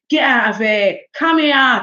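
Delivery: punchy South East London talk; South East London accent. Shown as a demonstration. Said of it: "I'm from South East London. That's how we".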